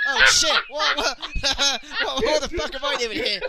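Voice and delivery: loud, confused, laughing through it; mock Perry Saturn. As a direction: play a bewildered wrestler, cracking up. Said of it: "Perry Saturn walks in and goes".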